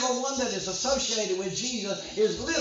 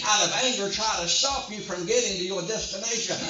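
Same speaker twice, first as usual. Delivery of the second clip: driving, unbroken sermon delivery; forceful preaching; 2 semitones higher than usual. Real, not acted. Preacher warning the congregation hell will oppose them, forceful preaching. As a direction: preach it hard, phrase after phrase.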